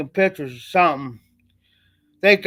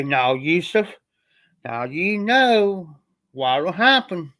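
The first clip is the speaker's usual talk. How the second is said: slow, mild stern-father warning; a hint of a father sitting his son down; dad's lecture voice; slower than usual. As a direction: lecture the kid slowly, calmly. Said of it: "like I'm talking to you".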